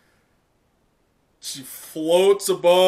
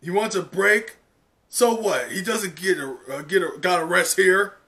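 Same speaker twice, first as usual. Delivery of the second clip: louder, higher dismissive retort; heckler scoffing; 3 semitones higher, 4 dB louder than usual. Acted. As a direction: scoff back from the crowd. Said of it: "someone in the crowd goes".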